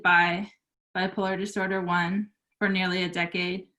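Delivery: measured read-aloud speech, pausing between phrases; prepared speech reading. Acted. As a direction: deliver a written personal statement phrase by phrase. Reads prepared speech about poetry.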